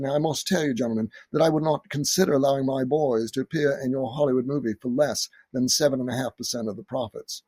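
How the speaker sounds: put-on lightly done arch British accent. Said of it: "in his most arch British accent".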